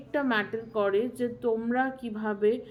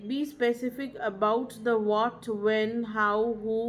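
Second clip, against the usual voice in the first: slow maxim; much slower than usual. Shown as a demonstration. Teacher stating a key maxim.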